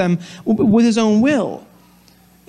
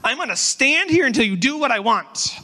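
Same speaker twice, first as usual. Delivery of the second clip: put-on higher, petulant demanding child; toddler tone; 5 semitones higher than usual. Preacher mimicking his toddler demanding from God, mock petulant whine. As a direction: stomp your foot like a stubborn toddler. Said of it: "more like a toddler".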